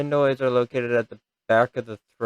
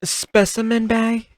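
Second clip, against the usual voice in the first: incredulous question; 11 semitones higher, 4 dB louder than usual. Real, not acted. Reacting to instruction.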